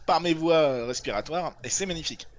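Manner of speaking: forcing words out past a cough; choking. Real, not acted. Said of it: "je suis en train d'étouffer".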